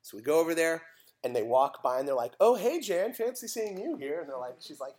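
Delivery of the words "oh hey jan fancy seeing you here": high, mock-casual greeting; feigned surprise. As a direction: act as if meeting by pure chance. Kids feign chance meeting, imitated.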